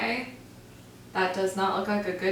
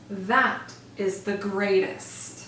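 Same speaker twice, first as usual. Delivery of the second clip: awed; slower than usual. Acted. Awed, hardly daring to breathe.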